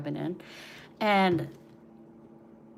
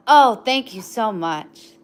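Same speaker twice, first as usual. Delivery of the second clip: pet praise; 10 dB louder, slower than usual. Real, not acted. Thanking dog's bark.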